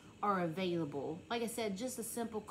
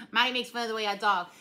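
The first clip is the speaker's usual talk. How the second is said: laughing; 10 dB louder, faster than usual. Real, not acted.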